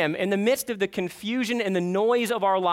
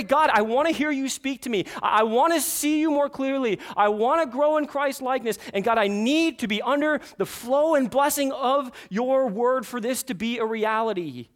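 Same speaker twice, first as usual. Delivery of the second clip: modeled prayer; 5 semitones higher, 4 dB louder than usual. Shown as a demonstration.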